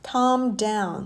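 "calm down" as kahm down; silent L. Shown as a demonstration. Teacher giving an example phrase, silent L in "calm down". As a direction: keep the L out of "calm down". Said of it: "ไม่มีตัว L".

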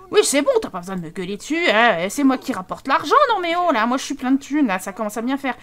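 lightly voiced sulky husband; defensive husband. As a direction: shrug off her yelling. Voicing husband in quarrel.

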